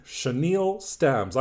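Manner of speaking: slow, deliberate "Chenille", shuh-NEEL; "Chenille" said slowly as shuh-NEEL; correct pronunciation, drawn out. Shown as a demonstration. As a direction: stretch the long ee in "Chenille". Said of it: "It's not the correct pronunciation".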